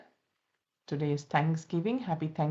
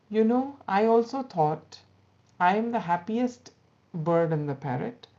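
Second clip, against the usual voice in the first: higher, louder boastful bird; proud parrot; 3 semitones higher, 6 dB louder than usual. Acted. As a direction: puff up and brag a little.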